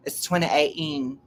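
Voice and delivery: "twenty eighteen" in mock-British; playful Britishy delivery; British accent. Shown as a demonstration. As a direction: correct them in a put-on British accent. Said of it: "You have to say it Britishy".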